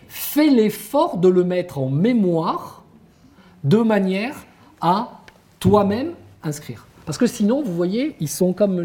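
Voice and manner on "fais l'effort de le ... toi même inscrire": slow, deliberate classroom instruction with spaced-out phrases; teacher instructing pupils. Acted. Teacher telling pupils to memorise the word, slow and insistent. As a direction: spell out the task slowly for a child. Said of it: "vous leur disiez".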